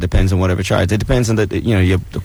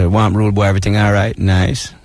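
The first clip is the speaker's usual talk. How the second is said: Jamaican accent. Shown as a demonstration. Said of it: "you can slide right into it".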